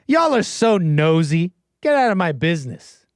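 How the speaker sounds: hammed-up Southern belle scolding nosy chat; Southern accent. Streamer in character to chat, mock Southern accent. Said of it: "this accent is accurate".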